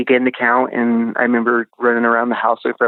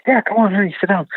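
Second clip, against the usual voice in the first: lightly imitated girl, pitched up; higher-pitched quote of a girl inviting; retold girl's voice; 8 semitones higher than usual. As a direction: wave them in with a higher voice. Retold girl welcoming him to hide.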